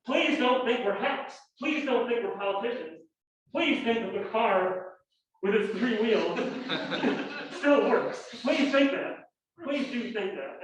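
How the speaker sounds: half-laughing mock plea from the bench; pleading justices. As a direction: beg the audience like a worried justice. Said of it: "making these protests in public".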